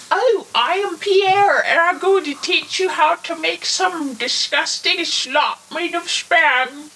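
high, slow mock French accent; mock French chef. Friend mocks the cooking host in a hammy French accent. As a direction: ham up a silly French chef voice. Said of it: "that's what you sound like".

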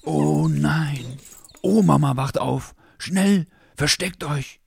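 high, loud, frightened puppy; panicked whimper. Acted.

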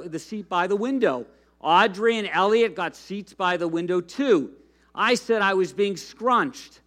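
lively storybook reading to a congregation; animated read-aloud of a kids' story; reading a children's book. Acted. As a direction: read it like a picture book to kids.

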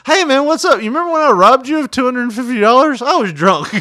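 high, mock-drunk street greeting; drunk rocker voice. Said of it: "this guy coming up to you going".

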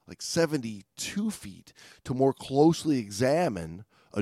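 measured, deliberate read-aloud; story narration. A narrator's reading. Podcast host reading a diver's incident account, measured narration. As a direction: read the account out with weight on key words.

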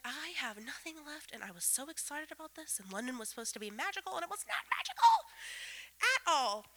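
hammed-up tearful wail climbing high on not magical; half-laughing fake sob of defeat; mock sobbing. Exhausted on the couch after a ruined London day, mock sobbing. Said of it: "laying face down on the couch sobbing".

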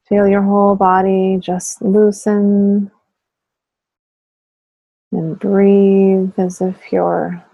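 unhurried guided relaxation with long pauses; guided meditation. Real, not acted. Teacher guiding listeners to tense and relax muscles, guided meditation voice. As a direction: lead them gently through it, pausing between phrases.

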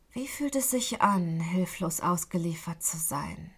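low, cold, toneless whisper of a captor; a touch of an icy captor, held back; cold, emotionless voice. Acted. Kidnapper taunts his bound captive, coldly and quietly. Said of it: "mit emotionsloser, kalter Stimme".

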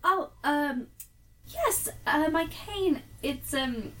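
flustered, trying a bit too hard to sound British; lightly affected British accent, hesitant; put-on British accent. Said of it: "why it sounds kind of fake sometimes".

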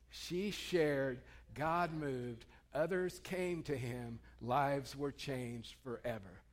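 slow, each phrase spaced out for the crowd to follow; slow call and response. Shown as a demonstration. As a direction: lead the congregation through it slowly. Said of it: "Say that with me".

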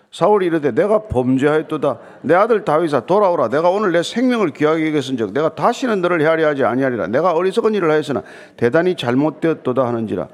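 firm, continuous congregational recitation; scripture reading. Acted. Pastor leading the congregation through Saul's confession, scripture reading.

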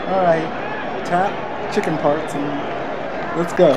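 lightly hammed-up referee laying down rules; a hint of ring-official formality; mock boxing referee. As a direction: address both fighters in measured, separate phrases. Plays boxing referee addressing the fighters.

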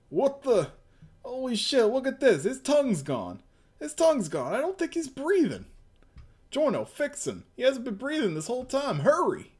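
high, rushed alarm; urgent panic. Acted. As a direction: beg for help, hurry. Character panicking, calls for help.

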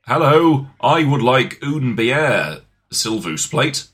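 lightly voiced clumsy British tourist, slow; mock a Brit ordering beer badly; stereotypical Brit abroad. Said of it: "being all like".

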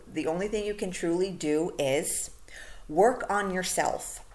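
"work on yourself" slowed and stressed. Shown as a demonstration. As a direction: land "work on yourself" slowly. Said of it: "the reason I'm stressing this".

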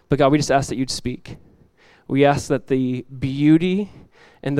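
soft, low prayer voice; hushed, unhurried prayer to God. Real, not acted. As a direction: pray quietly, pausing between phrases. Leads a prayer.

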